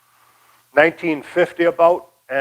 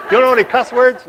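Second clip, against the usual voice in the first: imitating a cheeky asker; 9 semitones higher, 5 dB louder than usual. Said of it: "everybody says".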